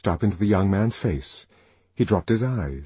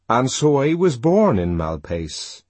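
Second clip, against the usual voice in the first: put-on young man's voice; 4 semitones higher, 3 dB louder than usual. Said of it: "he concluded".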